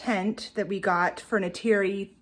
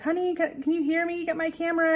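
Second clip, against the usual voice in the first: hollering for husband; 8 semitones higher than usual. Retold or imitated. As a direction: call out to the husband, raised pitch but held back. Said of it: "I hollered at my husband".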